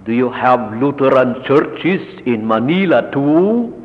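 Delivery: put-on light Italian accent; lightly imitating an Italian accent. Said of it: "customary Italian accent".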